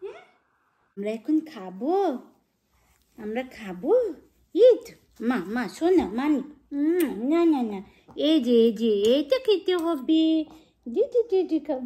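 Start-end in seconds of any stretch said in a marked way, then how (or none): 4.5-11.8 firm, loud coaxing; coaxing loudly. Real, not acted. Coaxing toddler to eat. (জোরে জোরে খাওয়ানোর তাগাদা)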